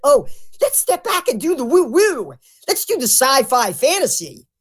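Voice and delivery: high, sing-song mock eagerness; mocking enthusiasm. Mocking truthers who prefer fantasy to anger, sarcastically eager. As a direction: chirp it like a silly, gleeful suggestion.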